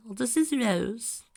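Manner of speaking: high, slow, half-asleep; groggy. A narrator's reading. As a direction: mumble like you just woke up. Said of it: "a groggy voice answered".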